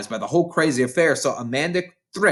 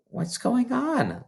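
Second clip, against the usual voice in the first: whispered question; 11 semitones higher, 5 dB quieter, slower than usual. A narrator's reading. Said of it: "Lavender whispered back".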